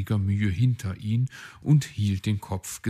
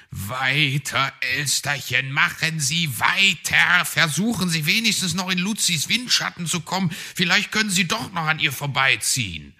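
louder, urgent coaching yell; bellowing coach; 8 semitones higher, 5 dB louder than usual. A narrator's reading. Herr Fuchs yelling at the magpie to keep skating, loud and fast. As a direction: drive her on like a frantic trainer. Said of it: "brüllte Herr Fuchs sie an".

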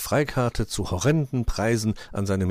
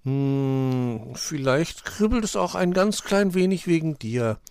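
higher, coy and tender; beaming affection; 7 semitones higher, slower than usual. A narrator's reading. Girlfriend coyly admits her butterflies to sweetheart, beaming. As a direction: admit it teasingly, with a smile. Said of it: "strahlte sie ihn an".

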